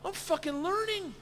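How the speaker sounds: student who just got it; proud excitement. Retold or imitated. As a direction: crow about finally understanding. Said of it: "For a second, I'm like".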